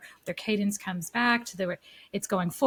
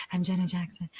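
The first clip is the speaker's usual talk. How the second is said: soft voice imitating a singer; 3 dB quieter than usual. Retold or imitated. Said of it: "I'm trying to sound like her 'cause I'm trying to be soft voice".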